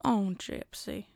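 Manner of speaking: slow, soft, lightly voiced country mother; mother impression. Mother from The Act addressing Gypsy, slow soft voice. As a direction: sigh the name slowly and softly. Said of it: "some country woman with the".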